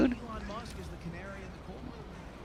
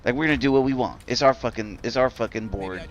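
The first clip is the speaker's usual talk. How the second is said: lower, softer mock contempt; dismissive sneer; 4 semitones lower, 5 dB quieter than usual. Board members brushing off the parents, mocked low and soft. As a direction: sneer it low and quiet like a smug official. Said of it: "The board members are like".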